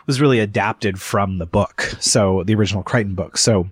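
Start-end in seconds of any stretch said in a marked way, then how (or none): 2.0-3.7 breathless, gasping between words; talking while short of air; out of breath. Real, not acted. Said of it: "sorry, I'm out of breath".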